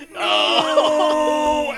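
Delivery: high, loud hammed-up cry of no; mock Vader no. Fan reenacting Vader's scream, hammed-up and loud. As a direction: wail it like a hammy villain. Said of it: "his response is".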